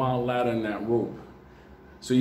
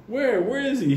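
fireman's urgent question; 10 semitones higher than usual. Retold or imitated. Fireman answers the yell.

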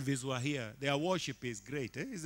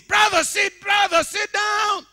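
shouted high and loud command, slower; church leader shouting; 20 dB louder, slower than usual. Retold or imitated. Worship leader yelling at dancing congregant, loud shout. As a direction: bellow it across the worship hall. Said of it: "the person leading says".

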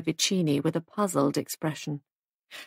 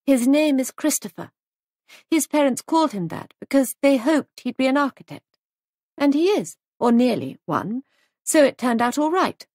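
put-on higher young hostess's voice; lightly voiced hostess; 7 semitones higher, 4 dB louder than usual. A narrator's reading. Hostess defending her guest to a critic, higher and earnest. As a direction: speak up for the guest, pitched higher.

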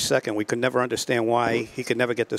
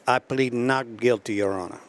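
put-on Puerto Rican accent. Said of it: "I'll use his accent".

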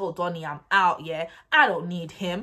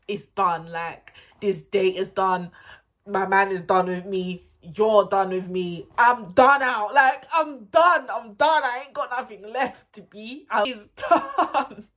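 exasperated rant; 7 dB louder, slower than usual. Retold or imitated. Giving up on the date, building loud rant. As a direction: build the despair to a peak. Despairing inner monologue, rising.

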